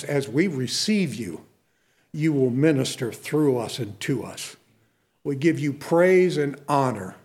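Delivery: pastor's benediction over the congregation; prayer. Real, not acted. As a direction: pray over the people, unhurried. Closing prayer.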